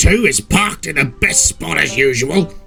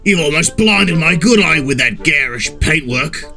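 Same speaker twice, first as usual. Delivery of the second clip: higher, scornful grouch; sneering; 6 semitones higher than usual. A narrator's reading. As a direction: complain sneeringly in character. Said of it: "sneered Sea Dog".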